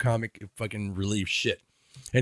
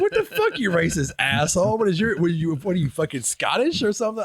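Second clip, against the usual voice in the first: mock outraged neighbor; 4 semitones higher than usual. Mocking the rude neighbor.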